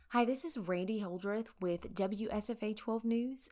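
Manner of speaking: formal news reporter voice. Retold or imitated. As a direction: sound like a seasoned reporter. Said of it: "put on my best reporter voice".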